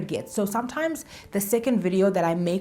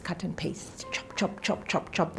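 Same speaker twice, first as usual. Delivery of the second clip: whispered; 8 dB quieter than usual. Real, not acted. Playful editing chop sound.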